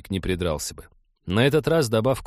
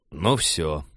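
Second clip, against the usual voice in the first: resigned sigh; 6 semitones lower than usual. Acted. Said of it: "обречённо вздохнул Женька".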